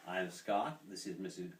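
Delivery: lightly imitated Irish accent; mock-formal Irish introduction. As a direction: introduce yourself with a hint of an Irish lilt. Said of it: "in an Irish accent".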